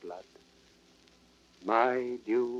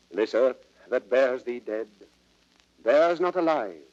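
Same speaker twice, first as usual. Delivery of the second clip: rising grief; 7 dB louder than usual. Acted. Prince over dead Hotspur, rising loud grief. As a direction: let the grief break out loud over the fallen rival.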